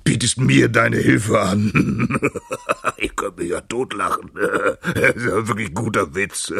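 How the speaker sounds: loud, slow words broken by guffaws; hearty laughter. A narrator's reading. Lion finding the mouse's offer hilarious, laughing heartily. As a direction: laugh right through the mocking words. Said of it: "musste der Löwe herzlich lachen".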